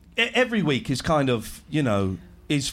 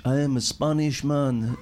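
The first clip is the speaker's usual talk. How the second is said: failed Spanish accent; 3 semitones lower than usual. Shown as a demonstration. Trying out Spanish for the room, a wobbly fake Spanish accent. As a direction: attempt Spanish and miss, crooning it. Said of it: "How can I do Spanish?".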